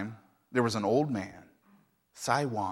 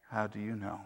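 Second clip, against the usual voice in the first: calm, low; 4 semitones lower, 8 dB quieter than usual. Acted. Old man calmly questions his mourning neighbors. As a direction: lower and softer calm question. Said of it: "Sai Wang calmly said".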